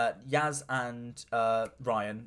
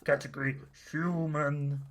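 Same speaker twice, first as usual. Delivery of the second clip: machine voice. Retold or imitated. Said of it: "and it goes".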